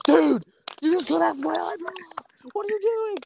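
high, mock upset whine; friend's whine. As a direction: complain like he's been betrayed. Friend upset about eyebrow.

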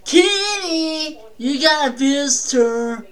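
father yelling for his son; calling out to Kenny. Retold or imitated. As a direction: call the boy to the door.

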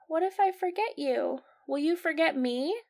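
put-on a touch of childlike pleading; little Dory. Young fish asking her parents, mildly worried child voice. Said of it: "she just is like".

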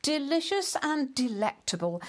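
talking through a mouthful; mouth full. Acted. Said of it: "he announced with his mouth full".

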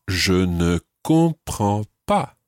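je ne comprends pas, slowly and carefully, each syllable clear; slow teacher model; slow model pronunciation. Shown as a demonstration. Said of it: "how would you say".

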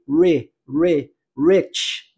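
"rich" said as "retch", with the i as a short e; i sounded as e. Shown as a demonstration. Teacher drilling the vowel of "rich" for students, "re" sound. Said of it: "o I com som de E".

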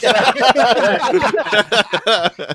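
laughing loud and high. Real, not acted. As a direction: burst out laughing while telling. GM laughing while describing.

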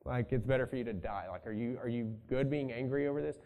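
lightly voiced exasperated God; the Lord fed up with Jonah, softly incredulous. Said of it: "he's like".

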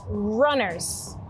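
"runners" starting on a clear, held R; teacher's careful "runners," R sounded clearly; careful pronunciation. Shown as a demonstration. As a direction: model "runners" with a distinct initial R. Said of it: "make sure you pronounce it correctly".

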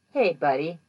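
creepy. Retold or imitated. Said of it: "like, super creepy".

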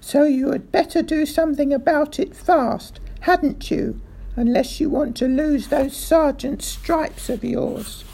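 high, loud threatening rant; angry threat. A narrator's reading. Furious threat to the sergeant.

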